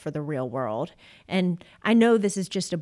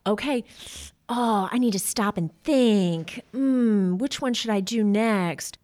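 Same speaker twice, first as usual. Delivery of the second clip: thinking hmm; slower than usual. Pretend. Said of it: "a child that's impulsive and they like".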